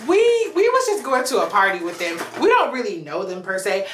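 acted innocent, careful pleading; meek plea to officer. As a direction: act out politely excusing yourself to authority. Retold timid plea to police officer.

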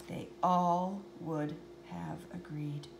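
soft whispered aside. A narrator's reading. Narrator confides the crowd's verdict, whispered. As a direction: let it drop to a whisper.

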